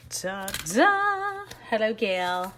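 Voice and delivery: ta-da reveal. Real, not acted. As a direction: present it like a magic trick. Reveals the cut stamp.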